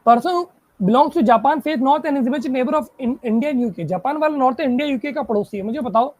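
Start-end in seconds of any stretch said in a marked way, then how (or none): 0.1-3.8 slow, deliberate reading of the clue. Shown as a demonstration. Teacher reading the puzzle statement to students, slowly. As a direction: spell the clue out word by word.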